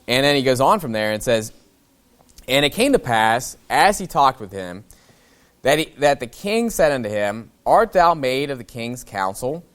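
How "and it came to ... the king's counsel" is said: measured King James reading; scripture reading. Acted. Pastor reading scripture to his church, measured. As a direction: read the passage out to the congregation.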